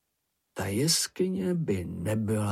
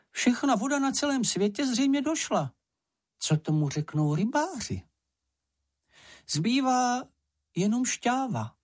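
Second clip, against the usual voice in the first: high, squeaky, boastful little animal; Sniff's voice; 13 semitones higher than usual. A narrator's reading. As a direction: brag in a squeaky voice about a secret. Sniff returns downcast. (vysoký pištivý hlásek, chlubivě)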